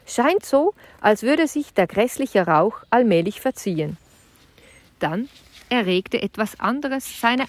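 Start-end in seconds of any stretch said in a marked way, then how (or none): 0.1-4.0 a touch of relief on a calm night; relieved. Acted. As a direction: let the relief lift Scheint up. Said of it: "stellte er erleichtert fest".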